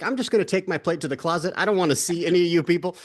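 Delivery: hurried, half-joking antisocial excuse; mock brush-off. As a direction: playfully announce your escape from the relatives. Acted excuse to avoid holiday guests.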